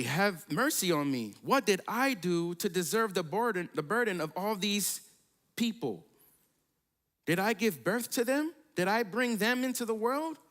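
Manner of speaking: a leader at the end of his rope; upset Moses. Acted. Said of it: "this is how upset Moses was".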